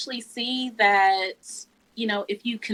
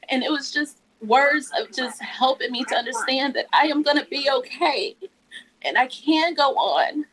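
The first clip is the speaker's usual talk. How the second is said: emotional; 5 semitones higher than usual. Real, not acted. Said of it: "I'm about to get emotional".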